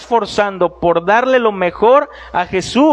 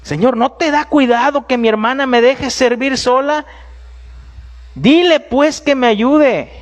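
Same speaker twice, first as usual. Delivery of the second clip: a scolding sister's demand to Jesus; annoyed Marta; 3 semitones higher than usual. Acted. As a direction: Marta demanding help, irritated. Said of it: "Marta se enfadó con su hermana".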